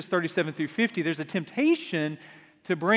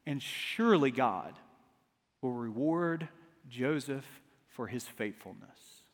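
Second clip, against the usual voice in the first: softer with each word; fading to a hush; 5 semitones lower, 7 dB quieter than usual. Acted. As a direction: let it trail away quietly. Fading toward ironic twist.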